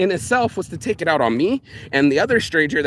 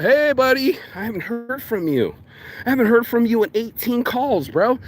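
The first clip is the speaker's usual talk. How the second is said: needy buddy imitation; 6 semitones higher than usual. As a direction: put on an over-friendly, pestering pal. Retold needy friend calling up.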